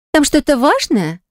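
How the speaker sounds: slow, stretched-out question; drawn out. Acted. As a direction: drawl each word lazily. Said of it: "протянула Лола".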